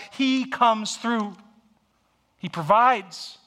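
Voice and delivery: slowing right down on the final promise; Abraham's fervent assurance. Acted. Abraham speaking to Isaac.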